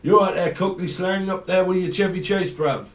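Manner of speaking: high, loud mock Cockney patter. Reader greets an imagined Cockney in mock Cockney. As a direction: put on a chirpy Cockney greeting. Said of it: "Someone's a Cockney".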